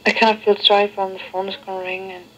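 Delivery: tinny answering machine recording. Real, not acted. Played answering machine tape.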